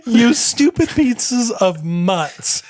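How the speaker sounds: "stupid pieces of mutts" said very slowly, laughing; mock repeat. Cohost slowly repeats the pirate insult, laughing. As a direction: drag each word out, amused.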